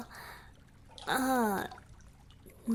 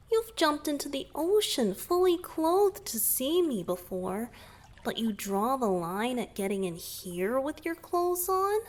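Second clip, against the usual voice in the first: higher, louder playful ribbing; playful teasing; 4 semitones higher, 3 dB louder than usual. Acted. Merman teasing his rescuer about getting in the tub. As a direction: needle them good-naturedly.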